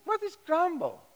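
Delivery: ordinary talk, nothing marked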